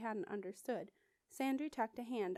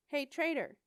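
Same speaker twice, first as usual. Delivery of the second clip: a mocking jeer, raised and higher; taunting the new girl across the hall, raised jeer; demanding; 5 semitones higher, 7 dB louder than usual. A narrator's reading. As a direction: call out the insult with a sneer. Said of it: "a boy demanded".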